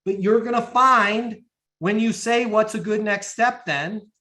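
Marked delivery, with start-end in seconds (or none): 2.5-4.1 slow, lifted, open question; unhurried, higher-pitched ask; demonstrated sales tonality. Shown as a demonstration. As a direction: model it deliberately for the class. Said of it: "in that exact tonality".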